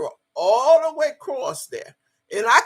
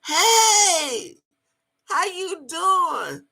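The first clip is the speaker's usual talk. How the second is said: hollered greeting; 9 semitones higher, much slower than usual. Retold or imitated. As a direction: call out a big hey across the yard. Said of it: "He hollered out".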